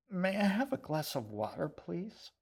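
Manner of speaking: high, strained, barely getting it out past dry rice; choking out the words. Acted. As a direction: talk past a throat full of dry rice. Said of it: "She just managed to choke the words out".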